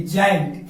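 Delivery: जायंट opening on ज; soft G pronunciation. Shown as a demonstration. Teacher showing G before I to students, जायंट with a j sound. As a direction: say जायंट with a j, no hard g. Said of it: "जी के बाद आई होना चाहिए".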